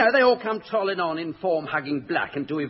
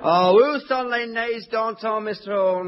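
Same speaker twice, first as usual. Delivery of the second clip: French; 9 semitones higher, slower than usual. Acted. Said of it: "your actual philosophical French".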